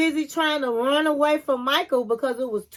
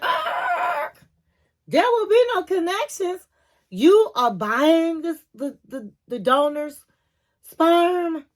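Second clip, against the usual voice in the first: stern clinic lady; 5 semitones higher, slower than usual. Retold or imitated. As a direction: play the strict clinic lady laying down the rules. Clinic lady shuts down connection idea.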